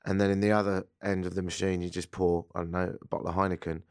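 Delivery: hoarse from a light cold; scratchy, sick-sounding voice. Real, not acted. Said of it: "You sound a little scratchy".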